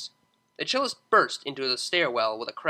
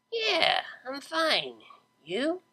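put-on drunk Vinyl; 10 semitones higher, 3 dB quieter, much slower than usual.

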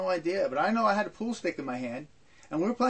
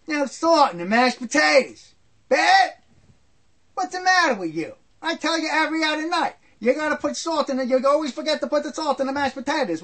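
angry yelling; 7 semitones higher, 5 dB louder than usual. Retold or imitated. Father yelling about unsalted potatoes.

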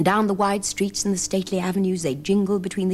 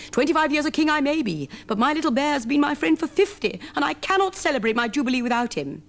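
raised, heartfelt king voice; a sad king refusing to celebrate; lightly voiced tender king; king's lament; 6 semitones higher than usual. A narrator's reading. King speaks of his bear.

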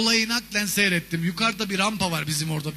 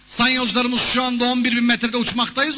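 mock pilot on the intercom, a bit raised; pilot announcement; 3 semitones higher than usual. Comic pilot addressing passengers, mock announcement. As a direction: announce it like a pompous captain.

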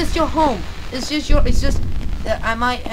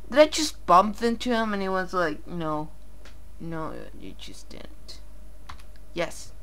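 much softer, low, almost whispered; hushed; 6 semitones lower, 12 dB quieter than usual. Real, not acted. Player hiding from the creature, hushed low talk. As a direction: keep it down so it won't hear you.

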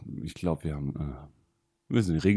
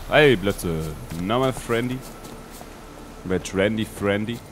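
loud happy call to the horse; cheerful greeting; 3 semitones higher, 5 dB louder than usual. Real, not acted. Greeting his horse affectionately.

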